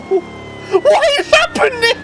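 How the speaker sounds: very high, slow, loud bewildered wail; stunned disbelief. Real, not acted. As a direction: drag the question out in real disbelief. Bewildered by the car's behaviour.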